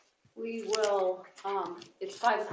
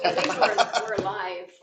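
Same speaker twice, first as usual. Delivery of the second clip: laughing; 11 dB louder than usual. Real, not acted. Laughing as the meeting goes live.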